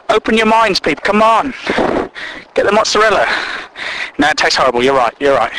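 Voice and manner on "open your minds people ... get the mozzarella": normal talking voice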